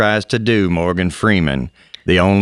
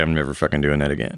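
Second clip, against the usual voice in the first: imitating son; 6 semitones lower, 6 dB quieter, faster than usual. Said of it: "he was like".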